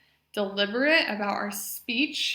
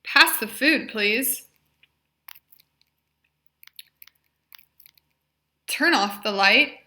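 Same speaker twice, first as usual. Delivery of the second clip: each phrase spoken much louder and clearly; modeled phrases; 2 semitones higher, 10 dB louder than usual. Shown as a demonstration. Therapist modeling functional phrases for the patient, loud and clear. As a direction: project every phrase for the patient to copy. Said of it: "So I will say the phrase".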